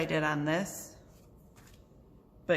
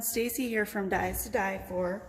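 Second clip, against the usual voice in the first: plosive pops on the P's; mic popping on P's; popping p sounds; 4 semitones higher than usual. Real, not acted. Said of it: "My P's popping up a little".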